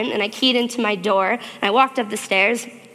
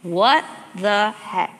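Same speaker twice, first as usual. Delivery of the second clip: pleading prayer; slower than usual. Retold or imitated. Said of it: "and I said".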